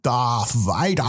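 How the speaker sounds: Darth Vader drawn out slowly; passerby's slow deadpan naming; slow mock passerby. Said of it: "another guy walked past and went".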